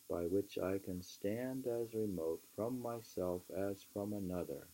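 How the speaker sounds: measured, emphatic book reading; reading aloud. Acted. Reading Thoreau aloud to a friend, measured and emphatic. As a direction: read the old essay aloud with weight. Reads Walden passage aloud.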